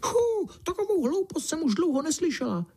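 high squeaky little mouse crying out; high-voiced mouse blurting out in scorn; field mouse exclaiming. A narrator's reading. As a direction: scoff like an indignant tiny mouse. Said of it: "vykřikla rezavá polní myška".

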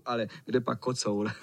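ordinary delivery, nothing marked

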